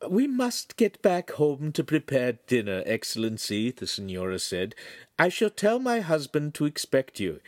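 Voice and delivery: high, proper lady's voice; gracious housewife, high voice; high-voiced Signora. Signora again.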